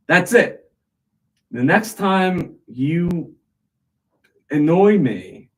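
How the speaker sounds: a man warning his parrot, mock angry threat. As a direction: lay down the law to the bird.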